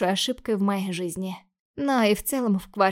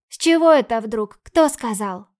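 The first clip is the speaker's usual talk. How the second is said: pepper her sister with scared questions; frightened little sister; 6 dB louder than usual. Acted. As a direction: younger sister demands answers, alarmed. Sister demands details.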